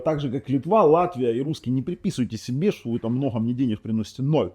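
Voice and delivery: ordinary talk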